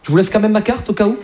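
lightly voiced, polite Parisian charmer; a hint of a suave Parisian chatting someone up; classy Parisian flirt. Parisian asks a woman out for a drink, lightly voiced classy flirt. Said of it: "quand il drague, c'est quand même classe".

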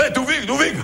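appel aigu d'Alain, un peu amusé; imitation d'Alain. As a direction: imite Alain qui appelle son chien. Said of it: "j'adore l'imiter". (imitation légère d'Alain qui hèle Toufik)

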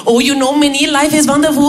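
imitated Indian colleague, overjoyed; blissful Indian colleague. Indian colleague greets the office every morning, blissfully happy. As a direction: let the last word swell with exaggerated bliss. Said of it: "Raj, un Indien".

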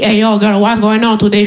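lightly put-on American street drawl; hint of an American guy chatting her up; American street accent. Brother approaching her in New York, lightly American accent. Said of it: "il me dit".

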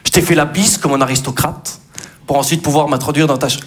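comic love poem recited; mock poem recital. Comic recites a silly love poem to Juju.

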